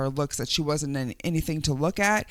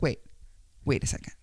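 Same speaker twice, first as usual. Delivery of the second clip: whispered thief; 4 semitones lower, 6 dB quieter, much faster than usual. Retold or imitated. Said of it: "He was just like".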